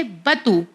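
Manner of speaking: बतू with a short first "a"; बतू said as ba-too; correct short vowel. Shown as a demonstration. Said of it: "बातू नहीं पढ़ेंगे".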